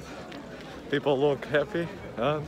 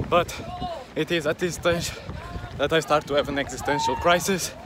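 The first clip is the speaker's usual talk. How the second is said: while running. Real, not acted. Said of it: "I'm getting a bit out of breath".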